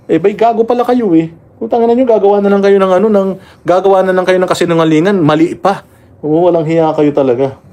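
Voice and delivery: fed-up vlogger cursing at officials; angry outburst. Real, not acted. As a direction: lash out at the officials, swearing.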